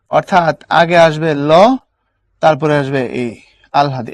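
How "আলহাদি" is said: আলহাদি with ল sounded before হ; correct pronunciation. Shown as a demonstration. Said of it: "এটা হচ্ছে উচ্চারণ".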